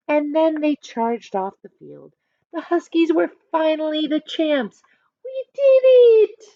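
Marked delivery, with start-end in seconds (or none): 5.2-6.4 excited cheer. Acted. Team celebrates victory.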